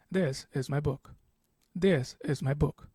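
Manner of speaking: statement with the pitch dropping on "book"; falling intonation. Shown as a demonstration. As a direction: let "book" fall as a plain fact. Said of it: "lower your pitch towards the end".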